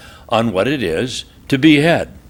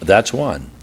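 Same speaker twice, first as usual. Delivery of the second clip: calm and cold; 4 semitones lower than usual. Retold or imitated. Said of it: "he very calmly looks over at her".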